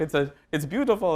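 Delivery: mild mock-Italian accent. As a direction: quote him with a hint of an Italian accent. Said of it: "I'm giving him an Italian accent".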